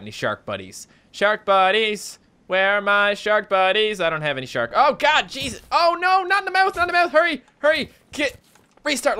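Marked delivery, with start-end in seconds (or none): 1.1-4.0 slow sing-song call, a bit louder. Real, not acted. Calling sharks over in game. 4.8-9.2 much higher, louder panicky cries; panicked. Real, not acted. Shark grabs him in game.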